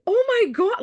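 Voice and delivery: mock shock at the memory; replaying her own startled reaction; shocked gasp. Recalling her shocked first reaction.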